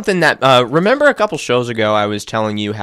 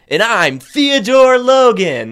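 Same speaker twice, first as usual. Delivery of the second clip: movie quote; 10 semitones higher, 4 dB louder, slower than usual. Retold or imitated. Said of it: "That's what you were supposed to say".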